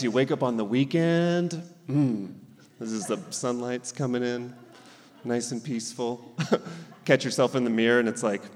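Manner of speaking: normal talking voice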